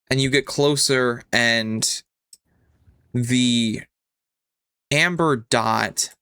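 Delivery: measured narration with suspenseful pauses; game master scene-setting. Acted. Game master leads player into a fading world, measured suspenseful narration. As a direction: set the scene phrase by phrase, letting it hang.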